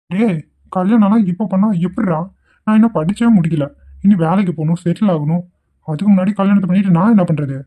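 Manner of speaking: agitated protest, voice pushed up a little; stressed, panicky objection to a friend; tense. Acted. Student telling his friend he cannot marry yet, tense and agitated. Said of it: "ஒரே டென்ஷனா இருக்குடா".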